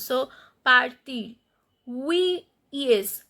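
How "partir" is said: "partir" with its last R sounded; final R pronounced. Shown as a demonstration. Teacher showing the R exception, "partir" with final R sounded. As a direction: keep the R at the end of "partir". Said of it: "when we find R as a final consonant, we pronounce".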